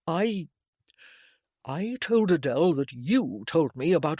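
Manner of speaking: put-on earnest, rueful young man; young gentleman voice. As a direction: confess it, a touch ashamed. Harold confesses to Damien.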